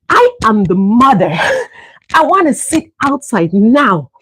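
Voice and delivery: petulant thought. Retold or imitated. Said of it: "I'm thinking to myself".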